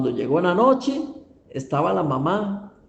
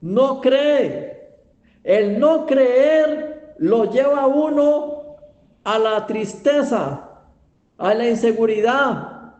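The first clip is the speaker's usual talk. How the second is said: raised pitch, deliberate moral pronouncement; emphatic preaching; 6 semitones higher, slower than usual. Real, not acted. Preacher warns that people don't believe God, emphatic. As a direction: drive the lesson home to a congregation.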